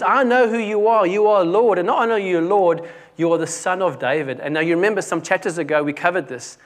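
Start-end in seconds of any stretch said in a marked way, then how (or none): 0.0-4.4 acted plea. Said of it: "She comes down and says".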